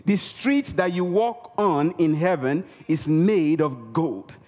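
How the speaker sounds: ordinary talk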